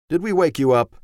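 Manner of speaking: gentle father. A narrator's reading. Father asks sleepy son.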